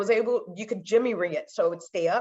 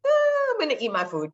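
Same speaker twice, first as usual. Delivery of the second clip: put-on resigned kid; 9 semitones higher, 3 dB louder than usual. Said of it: "I'm like".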